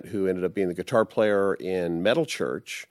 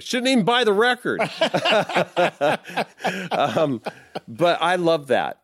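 much higher, fast laughing delivery; real laughter, fast and high; 10 semitones higher than usual. Real, not acted. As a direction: laugh through the punchline. Laughing at the ironic end.

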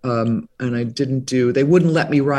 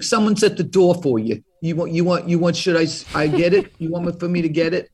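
bad Brooklyn accent; faster than usual. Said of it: "with a really bad Brooklyn accent".

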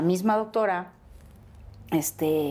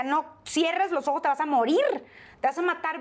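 panicked self-talk; 8 semitones higher than usual. Retold or imitated. Woman in pain driving, urging herself awake in fear. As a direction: keep yourself awake, frightened.

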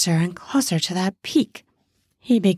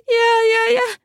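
high, louder woman's yeahs; eager yeahs; 4 dB louder than usual. Acted. Woman urging her lover on, high and eager. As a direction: urge him on, high and eager.

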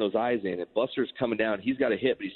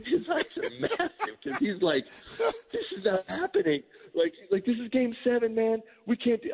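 high, laughing imitation of a panicked protest; retold disbelief squeaked through laughter; laughing retelling; 11 semitones higher than usual. Teller imitating the stunned catcher before game seven, laughing and high.

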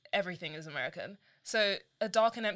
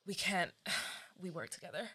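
mild sigh regret; 6 dB quieter than usual. Acted. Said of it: "So we're like".

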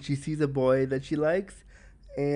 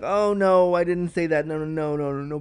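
quick, flustered backpedal, louder at the start; flustered denial; 4 dB louder than usual. Retold or imitated. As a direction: brush it off in a shy rush, fading at the end. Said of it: "I will be like".

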